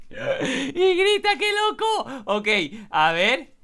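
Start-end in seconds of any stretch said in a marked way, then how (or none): 0.1-2.2 very high, squeaky astonishment; amazed squeal. Real, not acted. Player reacts to the girl screaming, high amazed squeal. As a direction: squeal in giddy disbelief.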